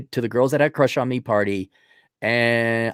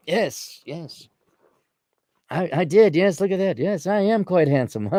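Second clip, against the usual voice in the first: posh and handsome; 4 semitones higher than usual. Retold or imitated. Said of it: "much more posh and handsome".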